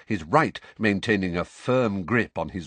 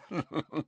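forced manic laugh; 9 semitones higher, 7 dB quieter than usual. A narrator's reading. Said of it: "grin in a horrible, manic way".

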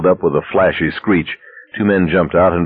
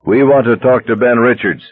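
blaring megaphone; 3 semitones higher than usual. Acted. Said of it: "asexual, blaring, amplified".

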